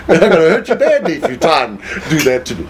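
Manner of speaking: fast words through a laugh; laughing threat. Retold or imitated. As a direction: laugh while making the threat.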